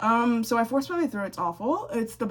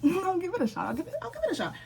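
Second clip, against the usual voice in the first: high, giggling self-quote; laughing at her own resolve; 9 semitones higher, faster than usual. Retold or imitated. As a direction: laugh through the promise. Reluctantly agreeing to read classic.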